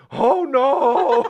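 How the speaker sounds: imitating Uncle Brando. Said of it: "you hear Brando go".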